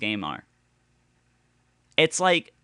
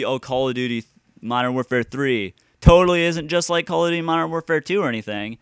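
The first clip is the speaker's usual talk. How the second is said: sarcastic mock; 3 semitones higher, 6 dB louder than usual. Mocking fans' claim.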